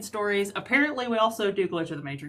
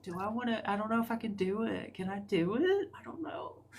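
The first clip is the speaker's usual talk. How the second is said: nervous dithering; 2 semitones higher, 6 dB quieter than usual. Retold or imitated. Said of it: "And then I'm always like".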